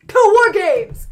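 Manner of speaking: loud, high mock rallying yell; team battle cry. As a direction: belt it out like a team chant. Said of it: "they're all like".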